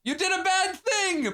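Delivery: high, drawn-out mock angelic scolding; scolding trumpet angel. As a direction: proclaim it slowly like a heavenly herald. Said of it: "an angel with a trumpet".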